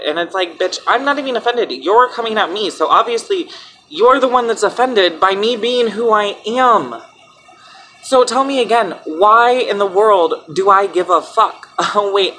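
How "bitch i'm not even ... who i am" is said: higher-pitched, indignant retort; indignant comeback. Acted. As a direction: fire back at critics, pitch raised. Acted comeback to offended critics.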